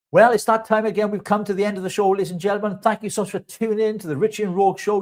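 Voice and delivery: cheesy host voice wrapping up the show; show outro. Acted. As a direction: announce the close like a TV host.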